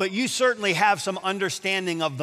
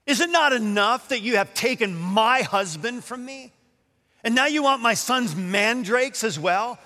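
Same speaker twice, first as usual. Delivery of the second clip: higher, indignant mock outrage; sneering; 6 semitones higher than usual. Leah accusing Rachel of taking her husband, sneering indignantly. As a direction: throw it back as a scornful question. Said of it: "sneers and says".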